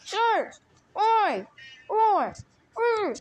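excited countdown. Pretend. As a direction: count down to midnight, rising excitement. New Year countdown game.

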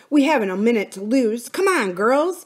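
rally them to hurry; urgent urging. A narrator's reading. Philip urging the tired girls onward, urgent.

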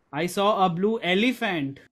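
demonstrative stress on the final word "elephant". Shown as a demonstration. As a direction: land the emphasis on "elephant". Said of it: "Emphasis on elephant".

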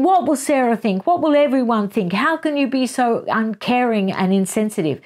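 a hint of a wife going off at him; mild mock tirade. Wife scolding husband over the ski trip, mock angry. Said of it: "really going off at him".

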